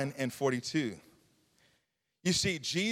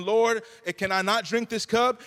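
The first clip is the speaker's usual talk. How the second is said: raised, earnest plea; begging; 4 semitones higher than usual. Acted. Preacher voicing Jesus on the cross asking God, begging. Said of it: "he's begging God for this cup".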